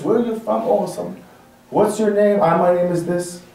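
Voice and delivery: mildly hesitant, imitated exchange; mock nervous. Preacher mimics nervous man asked where he's from, hesitant. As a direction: act out an unsure, nervous answer. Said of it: "so shaky and so nervous".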